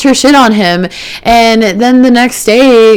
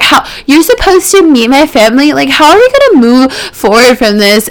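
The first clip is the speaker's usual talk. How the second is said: mock-whiny, pitched higher and put-upon; whiny girlfriend; 5 semitones higher than usual. Retelling the contestant's whiny reply on the date, higher mock whine. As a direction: play her as a whiny, wounded girlfriend. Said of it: "She was so whiny".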